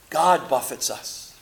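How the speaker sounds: whisper. Acted. Preacher drops to a whisper.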